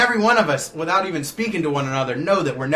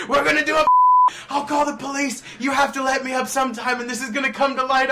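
mock threat; 13 semitones higher, 6 dB louder than usual. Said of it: "And he's like".

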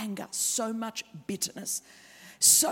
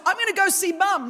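brother's vow; 8 semitones higher, 10 dB louder than usual. Retold or imitated. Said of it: "George goes".

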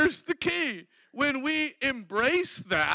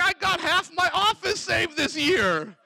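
excited boast; 5 semitones higher than usual. Acted. Worker reporting saved coworkers to God, excited. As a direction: exclaim it triumphantly.

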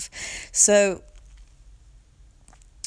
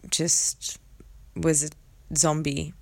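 whispered; slower than usual. Real, not acted. Hushed admission of numbness.

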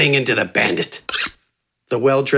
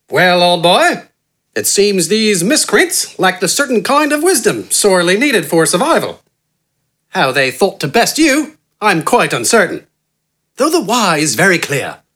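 higher, smooth, friendly and refined; eloquent gentleman; 5 semitones higher than usual. A narrator's reading. Well-dressed man flattering the giant, smooth refined charm. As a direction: purr it like an easy flowing charmer. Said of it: "eloquent, relaxed, and friendly voice".

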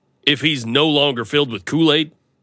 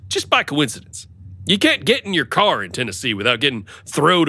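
sales pitch; 2 semitones higher than usual. Retold or imitated. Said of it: "I'm gonna say".

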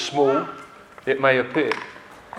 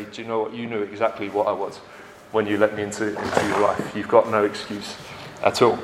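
sin's taunting voice; 4 semitones lower than usual. Retold or imitated. Sin turns on the one who let it in, lower and taunting. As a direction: speak as sin, turning on its victim.

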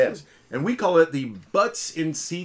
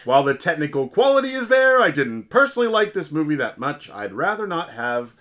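put-on Yakov Smirnoff Russian accent; 7 dB louder than usual. Co-host voicing a listener in a mock Russian accent. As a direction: ham up a Russian comedian's accent, then let it drop. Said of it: "He says it like this".

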